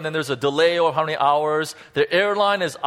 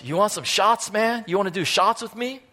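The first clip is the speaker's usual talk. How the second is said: pushy bar guy; 5 semitones higher than usual. Retold or imitated. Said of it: "and he goes".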